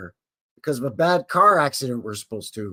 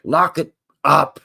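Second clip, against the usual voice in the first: slow, louder drawn-out call; mock announcer; 5 dB louder, slower than usual. Shown as a demonstration. Host closing the show, slow louder announcer call. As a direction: announce the sign-off like a slogan. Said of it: "Time to lock it up".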